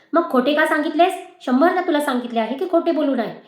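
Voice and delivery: a father's rising anger at a lie; angry scolding. Acted. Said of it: "वडिलांचा राग आणि आवाज वाढत होता".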